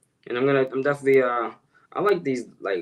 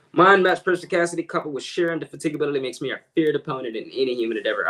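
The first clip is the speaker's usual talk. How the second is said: quick showy recital, starting higher; fast recitation; 3 semitones higher, faster than usual. Shown as a demonstration. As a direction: rattle off the big words quickly. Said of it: "slower for you guys".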